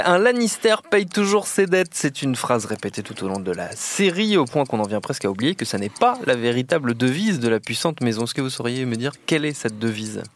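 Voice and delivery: deliberate quiz-master reading; quiz host read. Acted. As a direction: pose the quiz question like a game show host. Host reads quiz question.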